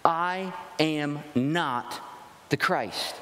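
very slow, deliberate "I am not the Christ"; emphatic denial. Retold or imitated. John to the delegation, a slow emphatic denial. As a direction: lay each word down slowly, "not" firm. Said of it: "the most emphatic way".

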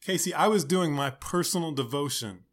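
lightly voiced heartfelt youth pastor; building, preachy youth leader; upbeat youth pastor. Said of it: "the random youth pastor voice".

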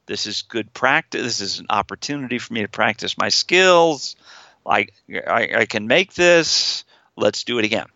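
steady, matter-of-fact self-coaching; the calm boss inside taking charge; executive voice. Shown as a demonstration. Therapist demonstrating the executive voice coaching the patient, steady. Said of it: "I've gotta have an executive voice".

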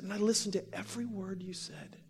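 softly overcome, almost crying; hushed and emotional, imitating her confession; imitated tearful woman. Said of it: "She starts crying".

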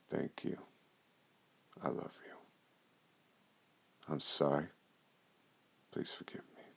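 barely voiced whisper; hushed whisper; whispered prayer. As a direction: breathe the words like a private prayer. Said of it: "The Hope in an Opal prayer goes like this".

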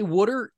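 "water" said as "wooder"; Philly "water". Shown as a demonstration. Host reassuring a fellow local, "water" as "wooder". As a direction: say "water" the Delco way, with an oo in the first syllable. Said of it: "Put the extra syllable in there".

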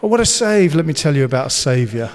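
hammed-up, laughing cheesy football pun; cheesy preacher pun. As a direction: gush like a cringey evangelist. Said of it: "Oh, cheesy".

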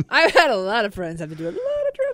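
laughing. Real, not acted. Laughing while talking.

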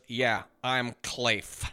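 very slow mock Spanish accent; mock Spanish accent, aping a rival to his face. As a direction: parody the Spanish accent back at him. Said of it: "Makes fun of his accent to his face".

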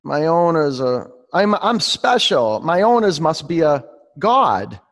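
high, loud voice of an amazed dog; awed dog. Acted. Teacher tells the class what a dog says, playfully awed. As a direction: exclaim it like an adoring dog, drawing out words. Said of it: "A dog says".

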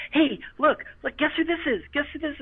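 high, eager mock announcer voice; excited announcing. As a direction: imitate the ride operator showing off a guest. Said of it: "she'll be like".

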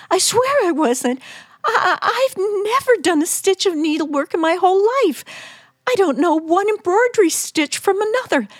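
high, fast, panicked denial; terrified wife babbling to her husband; frantic pleading. Acted. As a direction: talk fast and high to save yourself.

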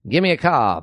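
lightly voiced old-timey radio announcer; a touch of a nineteen forties ad read; 1940s voice. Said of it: "I'm gonna do the voice that I was doing earlier. It's that l-, nineteen forties voice".

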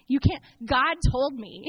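mildly indignant, imagined argument; rehearsing a huffy comeback; defiant retort. Retold or imitated. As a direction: push back loudly and slowly, half-acted anger. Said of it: "First, I get angry".

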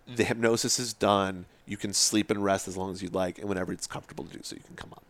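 retold hypnotist's soothing instruction; hypnotic command. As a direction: gently release someone from trance, fading out. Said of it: "I give her the command of".

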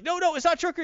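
high-pitched acted denial; urgent protest. Character protesting to the panicked crowd, high and urgent.

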